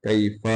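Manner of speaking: कैफ़ kept short, not stretched; short kaif. Shown as a demonstration. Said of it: "इसको लंबा नहीं करना".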